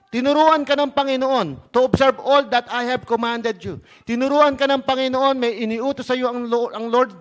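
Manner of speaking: forceful sermon delivery; emphatic preaching. Real, not acted. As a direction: press the command on the congregation. Preaches on the commission.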